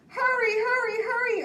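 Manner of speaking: high, loud pressing call; urgent urging. Acted. Bear urging Mole to run after the kite, high and loud. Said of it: "urged Bear".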